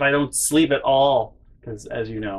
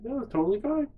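high, breezy insistence that it's fine; mock calm dad. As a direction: play it off in a high sing-song. Dad shrugging off roof loss.

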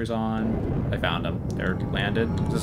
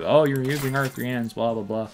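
mocking whiny complainers, a little higher; mock annoyed players; 5 semitones higher than usual. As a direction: parrot the naggers in a mild mock whine. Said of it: "avoid people screaming in my ear".

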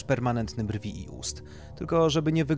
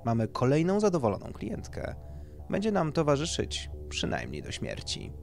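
pleased surgeon, pitch raised; higher-pitched, contented remark to the team; satisfied; 4 semitones higher than usual. Acted. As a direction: deliver a self-satisfied summing-up. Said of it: "z zadowoleniem podsumował".

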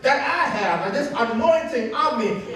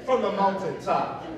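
excited shout. Real, not acted. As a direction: belt it out with joy. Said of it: "I got a little bit excited".

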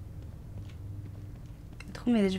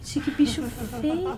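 nervous laughter; 4 semitones higher than usual. Real, not acted. Laughing after the chase.

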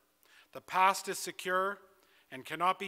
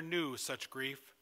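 hushed, slow whisper on grief; 2 semitones lower, 5 dB quieter, slower than usual. Acted. Whispered line in eulogy.

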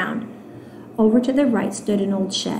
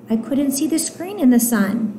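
put-on little girl's excuse; 5 semitones higher than usual. Little girl excuses herself.

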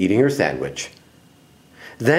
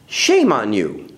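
slow, reproving teacher; understated telling-off, slowing at the end; scolding; 2 semitones lower, slower than usual. Acted. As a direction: draw out a mild scolding. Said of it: "scolded Miss Briggs".

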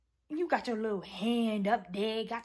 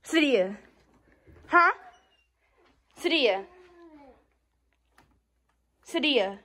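loud, sharp name calls; summoning a sister, loudly; calling out; 2 semitones higher, 8 dB louder than usual. Real, not acted. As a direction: call her name loudly to get her up. Calling sister to wake her.

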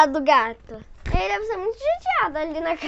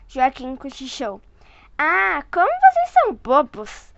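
put-on lively read-aloud voice for a child; storyteller voice for a little one; story narration. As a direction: read it like a bedtime picture book. Reading picture book to child.

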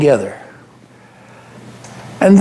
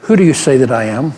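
pointed question; 6 semitones lower, faster than usual. Acted. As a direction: lower and fast, pressing. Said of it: "looked me right in the eye and he said".

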